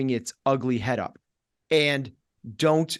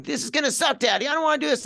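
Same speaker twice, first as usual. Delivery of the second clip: put-on high, whiny toddler voice; 12 semitones higher, much faster than usual. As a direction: hoog en zeurend als een peuter. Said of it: "annoying toddler that's living in your head".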